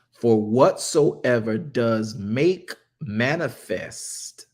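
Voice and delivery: slow, deliberate verse reading with weighty key words; scripture reading. A narrator's reading. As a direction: read the verse out slowly, stretching each key word. Reads scripture aloud slowly.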